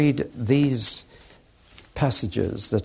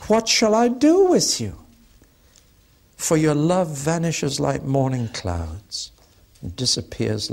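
1 anguished plea; 3 semitones higher than usual. Acted. God's anguished plea voiced.

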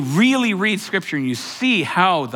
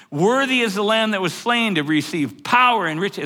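raised, higher proclamation of praise; retold angels' shout; 5 semitones higher than usual. Preacher voicing thousands of angels shouting over singing, mild proclaimed shout. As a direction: lightly imitate a shouted acclamation. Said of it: "shouting on top of that singing".

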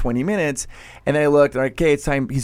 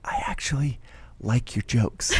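mock whisper; 6 dB quieter than usual. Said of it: "and they'll whisper".

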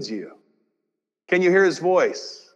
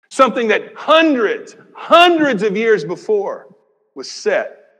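rising shout; 4 semitones higher, 5 dB louder than usual. Real, not acted. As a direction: proclaim it with force. Preacher builds to climax.

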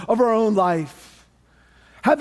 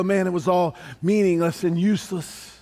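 weary regret; 2 semitones lower than usual. Retold or imitated. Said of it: "and I go".

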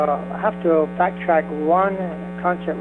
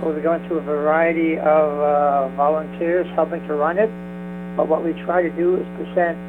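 phone line sound; thin telephone voice; over the phone. Real, not acted. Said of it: "We're on the phone right now".

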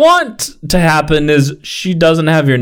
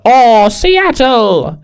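high, slow starry-eyed gush; mock awe; 10 semitones higher, 3 dB louder, much slower than usual. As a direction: drawl it like a dazzled newcomer. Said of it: "I was like".

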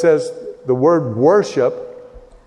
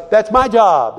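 high-pitched mock protest; mock angry protest; 9 semitones higher, 3 dB louder than usual. Priests angry about losing their job, imitated protest. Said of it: "They're angry because".

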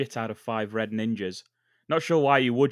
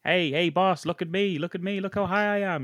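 attention-seeking show-off; 6 semitones higher than usual. Acted. Ninja showing off to boss.

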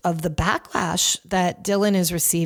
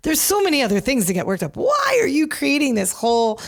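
incredulous, higher and quicker, imitating Howard's disbelief; Howard Stern; 4 semitones higher than usual. Imitating Howard confronting a musician over the cans, incredulous and higher. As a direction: play the baffled radio host asking why he cares. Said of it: "Howard just is like".

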